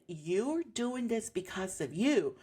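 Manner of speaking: high, slow, deliberate mock accusation; retold accusation. Husband to wife about her motives, pointedly accusing. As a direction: quote him slowly with pointed emphasis.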